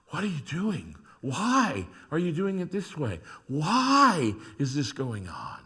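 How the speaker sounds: bewildered plea. Acted. Acted bewildered prayer to God.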